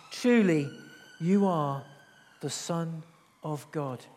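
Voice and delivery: falling, fading reverent line; worshipful reading. Acted. Disciples worshipping Jesus in the boat, reverent and fading. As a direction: read it as the disciples' confession. Worship quote read, then repeated.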